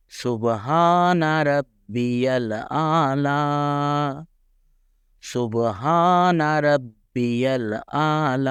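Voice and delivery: high, slow سبحان ربی الاعلی with a lighter ع; routine recitation. Shown as a demonstration. Teacher giving the everyday recitation version. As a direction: recite as in regular prayer. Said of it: "ویسے ہم انشاءاللہ اس کو پڑھیں گے".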